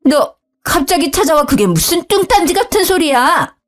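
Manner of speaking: put-on high, sharp scolding older woman; annoyed mother-in-law. Mother-in-law scolding her son's wife, high and sharp. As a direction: snap at the daughter-in-law.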